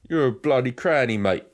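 mock London accent, cheeky jab; jokey London geezer accent. Shown as a demonstration. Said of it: "you need to say it with a London accent".

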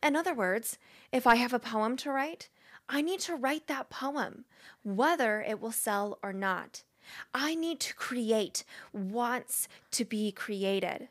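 measured recital, lingering on phrase ends; Julia Cameron. Acted. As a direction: read it in character with weighty pauses. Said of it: "read it like I think it's Julia Cameron".

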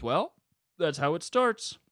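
lightly voiced knowing old man; slow, suggestive old-timer's remark. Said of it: "a very old man thing to say".

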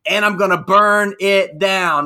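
slow, loud promo catchphrase; wrestling promo. Retold or imitated. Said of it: "he says".

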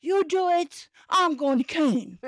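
high, breezy tipsy mom. Retold or imitated. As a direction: wave them off, a little drunk. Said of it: "So she's like".

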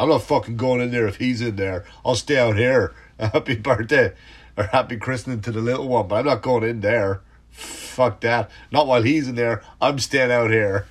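loud, defiant refusal to go in; stubborn feuding relative. Retold or imitated. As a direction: play the sulking relative outside.

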